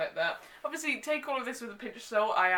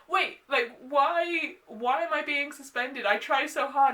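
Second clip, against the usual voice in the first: higher, louder whiny complaint; whiny protest; 5 semitones higher, 4 dB louder than usual. Retold or imitated. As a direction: play the offended innocent, voice up high. Queenie protests being suspended.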